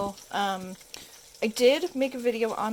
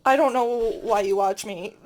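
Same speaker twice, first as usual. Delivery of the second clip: laughing; 6 dB louder than usual. Real, not acted. Laughing at herself.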